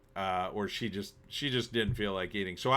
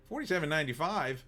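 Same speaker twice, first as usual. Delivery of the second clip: quick, higher-pitched disbelieving question; mildly taken aback, rushed and higher; surprised query; 4 semitones higher, faster than usual. Retold or imitated. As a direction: echo the figure back in mild disbelief. Querying an unexpected bill total.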